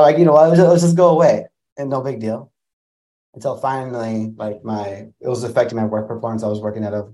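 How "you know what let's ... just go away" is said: high, loud pleading to get away; loud urging. Retold or imitated. Girlfriend urging him loudly to just leave. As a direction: call out to leave it all behind.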